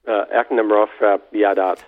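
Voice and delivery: "Ek Nimrod Frap Yadat" spoken as performance today reversed; backwards speech. Shown as a demonstration. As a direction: say the words backwards, sound by sound. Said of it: "how would you say performance today backwards".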